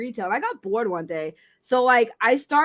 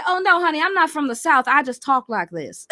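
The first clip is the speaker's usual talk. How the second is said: put-on Southern accent; 3 semitones higher than usual. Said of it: "talking Southern accent".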